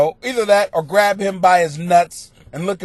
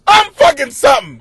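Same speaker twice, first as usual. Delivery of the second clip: laughing at himself; 13 semitones higher, 6 dB louder than usual. Real, not acted. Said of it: "I made myself hard".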